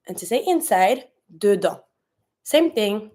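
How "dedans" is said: DEDANS ending on the nasal vowel, no S; silent final S. Shown as a demonstration. Teacher giving the French for inside, "dedans" with silent S. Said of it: "you don't pronounce the S".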